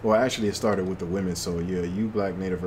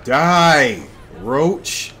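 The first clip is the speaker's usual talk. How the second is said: shouted taunt; 5 semitones higher, 9 dB louder than usual. Real, not acted. Finishing off an enemy.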